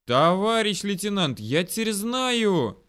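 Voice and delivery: high call, drawn out at the end; excited calling out. A narrator's reading. Soldier to his lieutenant, excited calling out. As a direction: report a sudden discovery eagerly.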